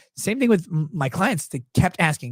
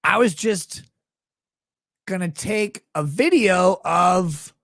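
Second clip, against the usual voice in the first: sheepish husband; much slower than usual. Retold or imitated. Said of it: "And he's like".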